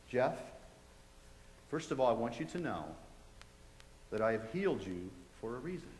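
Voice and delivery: low, soft, measured reassurance; soft but clear. Retold or imitated. The voice tells him why he was healed, soft and clear. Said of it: "real soft but real clear".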